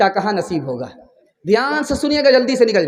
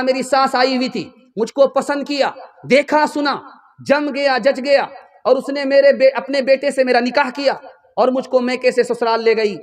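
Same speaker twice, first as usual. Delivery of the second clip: eager daughter; 5 semitones higher, 3 dB louder than usual. Acted. Daughter eagerly recounts her wedding.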